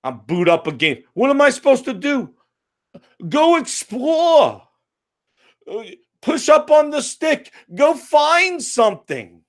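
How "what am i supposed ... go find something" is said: mock game voice. Mocking the game's instructions.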